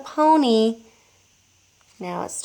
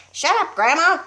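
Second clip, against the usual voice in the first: higher, louder brush-off; father snapping; 7 semitones higher, 4 dB louder than usual. A narrator's reading. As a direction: wave her off. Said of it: "he said".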